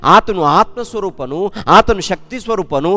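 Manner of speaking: full-force preaching. Acted. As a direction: proclaim each line like a rising altar call. Preacher urging praise of God. (ಏರುತ್ತಿರುವ ಜೋರಾದ ಉತ್ಸಾಹದ ಪ್ರವಚನ)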